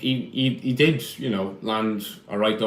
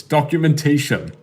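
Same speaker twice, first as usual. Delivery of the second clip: amused echo; 6 semitones higher, 5 dB louder than usual. Real, not acted. Echoing mom's word, amused.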